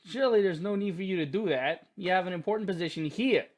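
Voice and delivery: put-on New York accent, lightly done; Giovanni. Giovanni urges Alex to stay, light New York accent. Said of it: "It's like New York".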